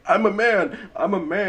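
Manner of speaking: put-on high, childlike voice, as if through tears; imitating crying little boy. Retelling a boy who cries to his dad, high voice. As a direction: mimic a small boy insisting through tears. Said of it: "through his tears".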